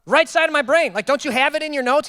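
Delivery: loud, high-pitched incredulous retort; mock-exasperated pushback. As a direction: act out disbelief at the question. Acts out exasperation at technician.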